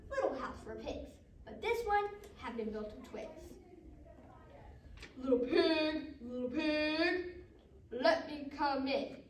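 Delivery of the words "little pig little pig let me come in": drawn-out, sing-song wolf call; singsong storybook wolf at the door. Acted. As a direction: coax the pig slowly, stretching each word. Wolf calling at second door.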